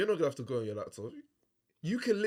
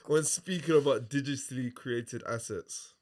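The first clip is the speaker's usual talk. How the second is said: laughing. Real, not acted. Finishes the sentence still laughing.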